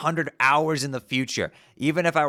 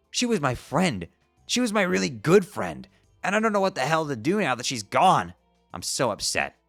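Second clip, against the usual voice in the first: distraught; 4 semitones higher than usual. Acted. Grieving friend's loss.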